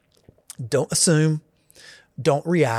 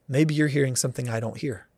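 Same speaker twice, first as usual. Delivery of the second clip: humble reply; 4 dB quieter than usual. Pretend. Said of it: "Or I can say".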